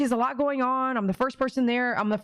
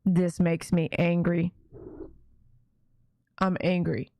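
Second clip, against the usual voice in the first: David; 4 semitones lower than usual. Retold or imitated. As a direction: impersonate contained anger, pitched down and deliberate. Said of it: "he goes".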